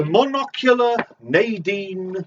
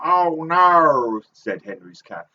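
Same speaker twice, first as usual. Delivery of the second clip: Henry's Cat voice; 2 semitones lower, slower than usual. Retold or imitated. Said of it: "She has this strange voice she does".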